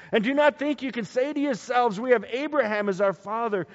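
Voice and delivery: loud, high prophetic denunciation; fiery preacher's scolding, acted out; stern rebuke. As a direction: denounce them forcefully. John rebukes Pharisees in quoted scripture.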